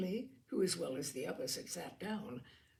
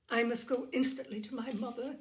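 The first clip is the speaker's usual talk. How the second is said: eager cry; 4 semitones higher, 4 dB louder than usual. Acted. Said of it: "she cried".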